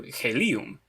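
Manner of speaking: "helium" said he-LI-um, stress on LI; "helium" with second-syllable stress, he-LI-um; stress on middle syllable. Shown as a demonstration. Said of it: "the stress moves one syllable over".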